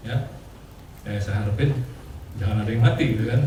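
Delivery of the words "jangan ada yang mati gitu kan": laughing. Real, not acted. Joke about martyrdom, laughing.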